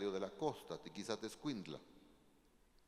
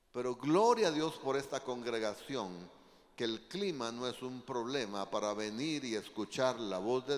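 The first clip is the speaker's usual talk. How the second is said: preaching exhortation; 7 dB louder than usual. Real, not acted. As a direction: preach it out to the congregation, building louder.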